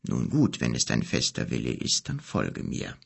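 put-on the old wizard accepting the boy's will; solemn wizard. A narrator's reading. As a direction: give in gravely, fading low. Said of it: "wizard consents solemnly".

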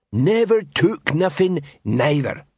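slow troll drawl, starting high; sullen troll protest. A narrator's reading. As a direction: add another plodding denial. Troll suspect protests his innocence.

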